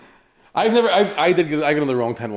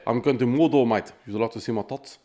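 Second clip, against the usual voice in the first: put-on amateur New Zealand accent; 2 semitones higher than usual. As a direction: have a rough go at sounding New Zealand. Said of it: "that was fucking New Zealand".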